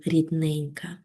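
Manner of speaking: soft fading word in a poem; expressive poem reading. Shown as a demonstration. Teacher recites the poem's tender word to pupils, softly. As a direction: let the word рідненька sink softly at the line's end, rising gently. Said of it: "виразно прочитати вірш".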